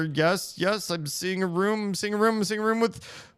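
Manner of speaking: excited yes. Real, not acted. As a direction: cheer as the room appears. Excited discovery of room.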